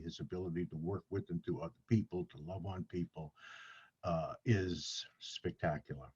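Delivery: breathless, running out of air; winded after gushing; out of breath. Real, not acted. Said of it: "I'm out of breath".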